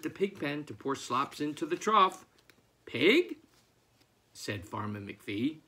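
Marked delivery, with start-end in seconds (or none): 2.8-3.4 calling out. Acted. Farmer calling for his pig.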